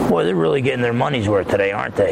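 put-on easygoing Alabama accent tossed off quickly; unbothered quarterback in a mild Alabama accent. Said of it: "with his Alabama accent".

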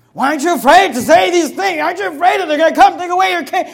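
challenger quoted. Retold or imitated. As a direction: fire the doubting questions at the preacher. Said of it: "quoting critics of his preaching".

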